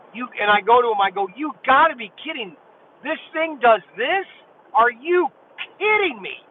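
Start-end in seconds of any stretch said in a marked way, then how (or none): 1.4-6.4 high, excited disbelief; mock stunned, rising pitch; retold amazement. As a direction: replay the jaw-drop moment. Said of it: "And I just lost it there".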